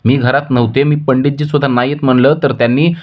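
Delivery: wife angry that the puja was held behind her back, answering her husband heatedly. Acted. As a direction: snap back at the husband, fed up. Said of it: "ती चिडते आणि म्हणते".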